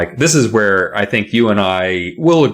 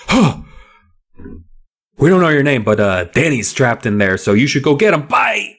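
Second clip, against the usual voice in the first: mock casual boys; 5 semitones higher than usual. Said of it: "they're like".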